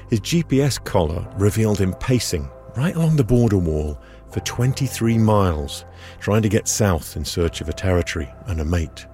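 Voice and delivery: normal talking voice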